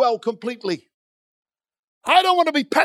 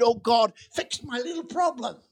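mocking small prayer; 5 dB quieter than usual. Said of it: "Some of us have got this attitude".

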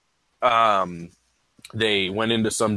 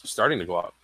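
quiet, breathy words after a puff; exhaling smoke; 4 semitones lower, 4 dB quieter, faster than usual. Real, not acted. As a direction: talk out a lungful of cigar smoke. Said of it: "let me take a puff so I don't go out".

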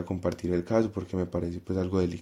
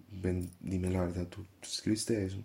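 soft, slow coaxing question; soft and slow, like coaxing a scared child; gentle teacher voice; 6 dB quieter than usual. Retold or imitated. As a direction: coax the truth out gently. Teacher gently questions crying girl.

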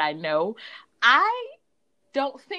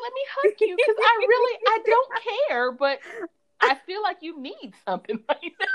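mock sympathy; 11 semitones higher than usual. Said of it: "It's like".

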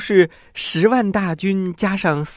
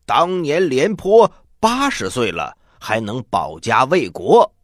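put-on a touch of indignant old warrior; proudly indignant, voice raised; angry old general; 4 dB louder than usual. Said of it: "他可生气了".

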